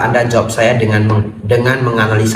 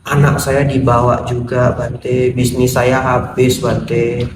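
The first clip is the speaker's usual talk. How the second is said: monotone, hopeless recital; lightly acted defeated plea; despondent lament; slower than usual. Ruined man confiding losses to monk, despondent.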